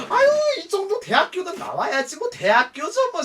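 high, loud gushing with a laugh; hammed-up fuss; over-the-top. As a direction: fawn in a big, exaggerated squeal. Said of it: "우리가 막 걔 오바를 떨었어".

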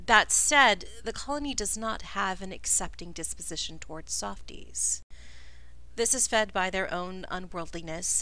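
lightly voiced stern ruler; measured chief. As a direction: speak as a guarded leader granting an audience. GM voices the chief Otha Kent.

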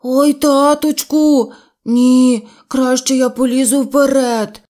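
stuck bear shouting for help; panicked cry. Acted. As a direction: cry out for dad, changing his mind in fright. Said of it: "А ще трохи далі він закричав".

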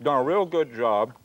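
talking through a mouthful; words round a bite of food; mouth full. Real, not acted. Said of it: "I'm sorry I'm talking with my mouth full".

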